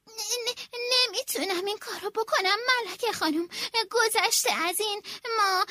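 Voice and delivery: flustered stammer. Acted. Nervous snail secretary refusing the queen. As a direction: fumble the words in a fluster. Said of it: "حلزون دست پاچه".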